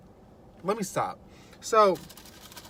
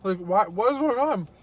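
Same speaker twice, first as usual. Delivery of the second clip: retold freaking out. Daughter asking mom why people are jumping, retold freak-out. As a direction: imitate pleading for an explanation. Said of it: "freaking out".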